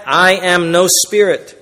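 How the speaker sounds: slow, deliberate "I am no spirit"; emphatic Jesus. Acted. Jesus denying he is a spirit, emphatic "I am no spirit". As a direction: give each word of "I am no spirit" its own weight. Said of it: "Jesus was emphatic".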